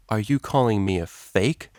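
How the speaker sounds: slow, menacing challenge; dangerous. Acted. DJ steps up to Octavia, slow and menacing. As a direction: let the threat sit in every word. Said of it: "she said dangerously".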